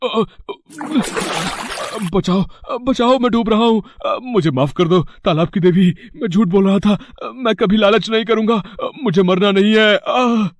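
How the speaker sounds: high, panicked calls for help while drowning; terrified cry for help. Acted. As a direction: scream for your life as the water pulls you under. Drowning, begging goddess for life. (डूबते हुए डर से ऊँची चीख़ती पुकार)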